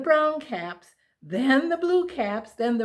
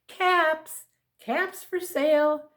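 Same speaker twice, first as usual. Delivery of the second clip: a light peddler's call, pitched up; street vendor calling; 5 semitones higher, slower than usual. Acted. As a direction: cry out your wares to the town, lightly. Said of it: "he walked back to town calling".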